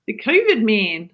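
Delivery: slightly slow New Zealand accent. Shown as a demonstration. Wife switches to New Zealand accent on request. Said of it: "say it like a New Zealander".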